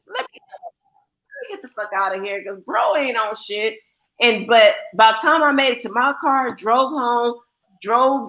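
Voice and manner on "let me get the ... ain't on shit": muttered aside. Retold or imitated. Retold leaving, muttered.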